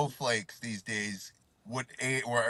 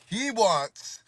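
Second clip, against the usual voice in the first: laughing; 6 semitones higher, 6 dB louder than usual. Real, not acted. Reluctant order while laughing.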